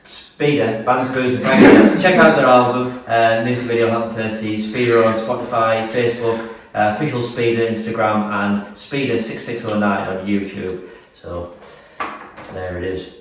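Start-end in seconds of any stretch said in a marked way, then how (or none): 0.0-10.9 louder, punchy radio announcer. Pretend. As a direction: sell it like a radio DJ. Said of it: "He's got the radio, uh, the radio voice".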